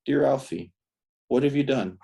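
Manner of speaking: measured verse, lifted on the opening address; poem reading. Acted. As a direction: recite it line by line with deliberate pauses. Reads poem addressed to Alfie.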